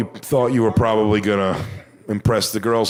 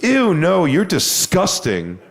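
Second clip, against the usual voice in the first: higher, slow drawn-out disgusted sneer; disgusted mock girl; 7 semitones higher, much slower than usual. Heckler rejecting the comic, mock disgusted sneer. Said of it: "and she goes".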